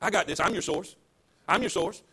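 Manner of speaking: calm him down like a gentle protector; the Holy Spirit quietly reassuring the worried preacher. Retold or imitated. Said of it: "and then the Holy Spirit said".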